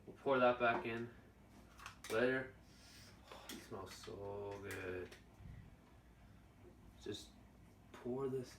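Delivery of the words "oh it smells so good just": breathy whisper of delight. Real, not acted. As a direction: whisper it, savoring the smell. Sniffing the drink up close.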